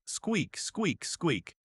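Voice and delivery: squeak-squeak sound effect, spaced out; squeaky dress imitation. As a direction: separate little squeaks, falling in pitch. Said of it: "imagining the squeaky sound it makes".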